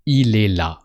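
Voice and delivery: quick, with "il" bound into "est". Shown as a demonstration. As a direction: run it together at natural speed. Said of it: "you can say it a bit faster".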